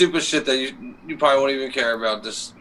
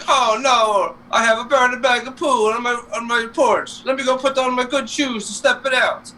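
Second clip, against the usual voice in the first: high-pitched cartoon dismay; Luigi; 8 semitones higher than usual. Retelling Luigi finding the burning bag, high character voice. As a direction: imitate a fretful cartoon plumber, pitched way up. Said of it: "Luigi opens the door and he's like".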